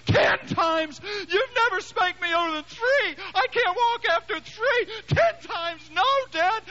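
put-on very high, shrill-pitched boy crying out; panicked child. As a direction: cry out like a terrified kid. Son panicking at ten times.

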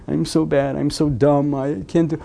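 mock-tearful, whimpering child voice; acted crying, lightly done; imitated sobbing child. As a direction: whimper it like a child putting themselves down. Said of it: "they're crying and they're sobbing".

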